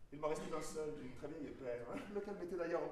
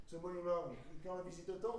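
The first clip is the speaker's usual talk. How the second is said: naive; 3 semitones higher than usual. Acted. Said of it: "Naïf".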